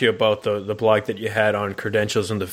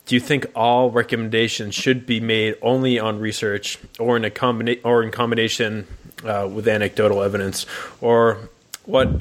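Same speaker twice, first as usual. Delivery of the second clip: caffeinated, rambling questions; jittery from too much coffee; too much caffeine. Real, not acted. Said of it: "I'm caffeinated right now".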